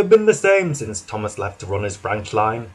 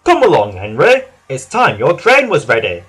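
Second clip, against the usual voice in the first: firm, louder command; firmly; 6 dB louder than usual. Acted. Fat Controller ordering sulking Henry to work, firm and louder. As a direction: order him along, no nonsense. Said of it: "said the Fat Controller firmly".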